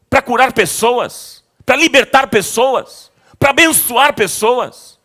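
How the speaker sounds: rising, emphatic preaching, last lines slowed; fervent preaching. Acted. Pastor exhorting congregation to show mercy, fervent preaching.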